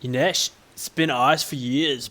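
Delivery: slow, badly faked Scottish accent. Islander claiming the land, terrible Scottish accent. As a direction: attempt a Scottish accent, not quite landing it. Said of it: "I'm gonna give up the accent".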